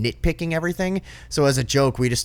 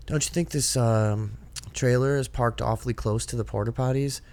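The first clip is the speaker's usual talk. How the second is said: nosy lady; 4 dB quieter than usual. Retold or imitated. Nosy lady retold, softer.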